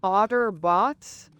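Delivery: slow, drawn-out words. Acted. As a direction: stretch each word out slowly. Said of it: "took him forever to say because of the slow thing".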